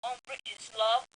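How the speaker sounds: a loose mock British accent, cheerful; hammy English gent impression. Doing a British accent for podcast listeners. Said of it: "Do a English accent".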